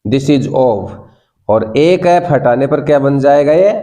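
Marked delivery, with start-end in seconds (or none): 0.0-1.0 "off" ending in a clear f sound; double-f "off". Shown as a demonstration. Teacher showing the new word, "off" said with final f. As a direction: finish "off" on f, not v. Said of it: "अब बन गया ये ऑफ".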